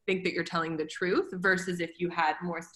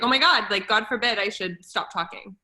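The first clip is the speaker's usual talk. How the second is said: excited gush; 3 semitones higher, 7 dB louder than usual. Retold or imitated. Mock self over-talking.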